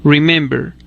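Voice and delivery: remember with the stress on MEM; stress on second syllable. Shown as a demonstration. Teacher showing learners the accent is not last, stress on middle of remember. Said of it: "sino en la segunda sílaba".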